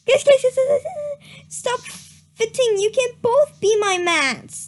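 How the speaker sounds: mock pleading call. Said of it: "Starpaw whispered".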